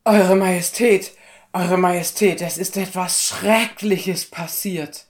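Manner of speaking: high, loud, breathless-with-news messenger; panicked servant raising the alarm, high and loud; frantic alarm. Acted. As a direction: cry out terrible news to the king. Servant reports the robbery to the king.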